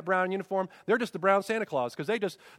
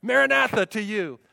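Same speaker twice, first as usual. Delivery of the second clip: ringing, heartfelt greeting, building louder; acted joyful proclamation; faith-filled greeting; 3 semitones higher, 4 dB louder than usual. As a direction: greet a friend lit up with faith. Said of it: "their eyes were lit up with faith".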